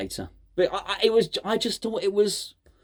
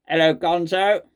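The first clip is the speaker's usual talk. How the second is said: robot voice. Retold or imitated. Vlogger redoing the caller's hello, in a mild robot voice. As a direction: say it like a stiff machine greeting. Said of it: "the hello in the robot voice".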